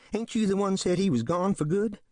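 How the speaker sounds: high, anxious whine; nervous complaint. Acted. Bogus complains to Smallwood, nervous. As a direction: blame him, worried. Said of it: "he complains nervously".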